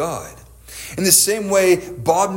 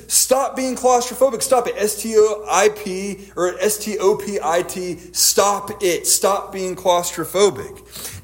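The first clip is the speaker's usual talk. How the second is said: retold yell; 3 semitones higher than usual. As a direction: imitate an exasperated therapist's yell at moderate volume. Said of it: "And he yells at her again".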